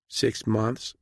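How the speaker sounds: small, meek answer to a superior; nervous junior officer; young frightened captain. A narrator's reading.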